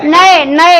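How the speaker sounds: नए, नए said twice with the अय sound stretched; teacher repeating a word for the class; repeated demo. Shown as a demonstration. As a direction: lean on the अय in नए. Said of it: "अय आ रहा है ना".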